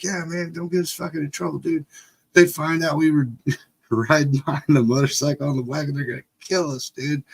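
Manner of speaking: high, hurried mock worry about getting caught; imitated panicky pleading. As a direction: plead urgently, acting it out. Pleading with brother, retold.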